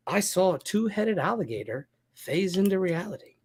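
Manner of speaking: punchy late-night host voice; mock host introducing the show; talk show host.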